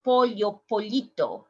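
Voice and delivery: pollo, pollito with ly; l sound. Shown as a demonstration. Teacher demos chick with ly. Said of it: "we said".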